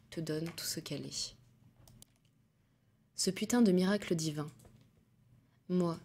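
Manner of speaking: measured poem recital, pauses between lines; poetry read aloud in even cadences. Acted. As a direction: read the verse intimately, letting phrase endings fall. Reads poems aloud.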